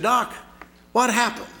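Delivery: put-on high, loud cry of a waking boy; urgent boy's cry. A narrator's reading. Boy waking in hospital calls to doctor, high and loud. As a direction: call out high and strained.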